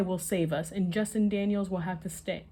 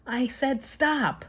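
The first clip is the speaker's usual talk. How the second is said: slow, much higher angry yell; 7 semitones higher, 4 dB louder, slower than usual. A narrator's reading. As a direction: stretch every word out in frustration. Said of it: "I yell".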